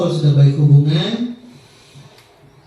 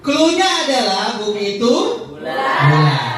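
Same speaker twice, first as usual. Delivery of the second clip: higher, loud game-host call of the clue; loud announcing clue; 3 semitones higher than usual. Shown as a demonstration. Teacher announcing the game clue to the seminar, loud. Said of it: "ice breaking".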